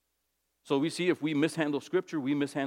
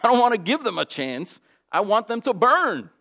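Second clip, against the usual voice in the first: rising angry protest, louder and higher toward the end; Jonah refusing; 6 semitones higher, 7 dB louder than usual. Retold or imitated. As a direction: build from grumbling to heated refusal. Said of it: "he says".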